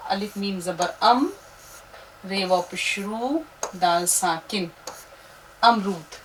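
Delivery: syllable-by-syllable spelling; teacher spelling a word; spelling aloud. Shown as a demonstration. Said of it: "फिर से देखिएगा".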